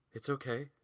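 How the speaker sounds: soft, subdued breathy whisper. A narrator's reading. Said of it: "she whispered in a breathy voice".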